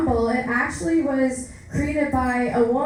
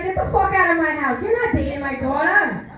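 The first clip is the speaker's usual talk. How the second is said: angry mom; 4 semitones higher than usual. Retold or imitated. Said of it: "she's like".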